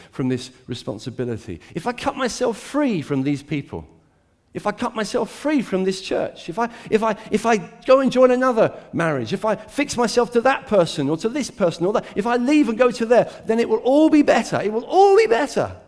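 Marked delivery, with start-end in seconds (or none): 4.5-15.8 building conviction. Acted.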